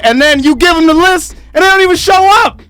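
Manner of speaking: high, loud, fast shout of frustration; exasperated shout. Real, not acted. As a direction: yell it out like you've had enough. Ranting about no-show comics.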